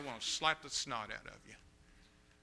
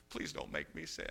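whispered begging; 13 semitones lower, 8 dB quieter than usual. Retold or imitated. Girl begging father.

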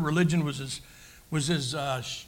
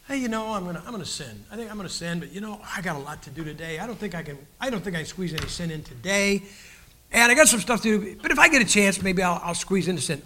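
lazy sinner voice. Pretend. Voicing a lazy casual sinner.

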